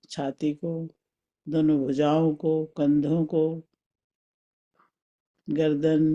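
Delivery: calm, spaced-out meditation guidance; guided meditation. Acted. Teacher leading a mental journey through the body, guided meditation. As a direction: guide them inward with long pauses.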